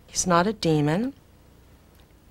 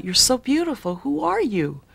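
awestruck blurt; 6 semitones higher than usual. Retold or imitated. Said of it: "I just blurted out".

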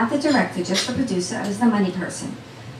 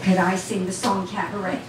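laughing disbelief. Retold or imitated. Answering the director's question, laughing in disbelief. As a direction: repeat "Could I sing the song Cabaret?" back, amused and incredulous.

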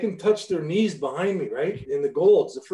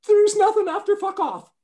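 very high, loud strained yell; furious coach outburst; 7 dB louder than usual. Retold or imitated. Red-faced coach yells at player in office, furious. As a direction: explode in a high-pitched rage.

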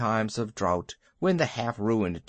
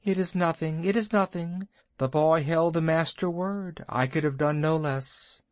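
a hint of a modest bird, slightly raised; lightly voiced kite; 4 semitones higher than usual. Ron answers Bagheera modestly, lightly raised kite voice. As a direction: shrug off the thanks, a little higher.

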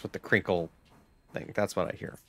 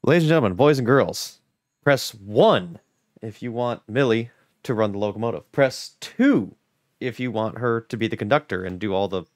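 announcer voice. Acted. Game-show style poll announcement.

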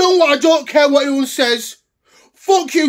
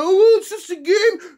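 higher, dismissive mimic; mocking his wife; 5 semitones higher than usual. Fan mimicking wife's dismissal, mocking higher voice. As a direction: parrot her as if it's silly. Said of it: "My wife was saying to me".

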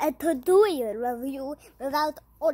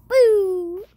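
scary boo; 5 semitones higher, 9 dB louder than usual. Pretend. Jumping out to scare.

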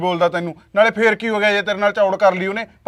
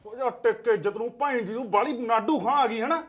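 much softer, hushed bickering at night; hushed quarrel; 8 dB quieter than usual. Acted. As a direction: keep the fight down so the child sleeps. ਆ ਕੁੜੀ ਸੁੱਤੀ ਪਈ ਆ.

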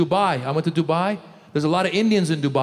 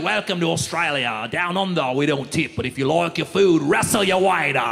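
a hint of a bad Australian accent; lightly faked Australian greeting; 2 semitones lower than usual. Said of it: "the worst Australian accent ever".

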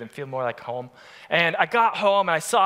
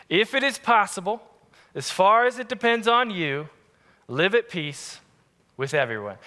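scripture reading. Acted. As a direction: read the verse with weight.

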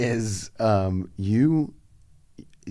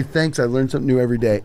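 fast chirpy; 2 semitones higher, much faster than usual. Retold or imitated. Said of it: "I say".

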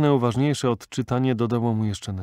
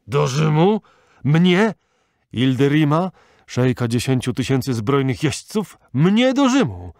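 high, loud outraged questions; old sheikh roaring in disbelief; furious disbelieving cries; indignant shouting; 5 semitones higher, 8 dB louder than usual. Acted. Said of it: "wołał Ilderim".

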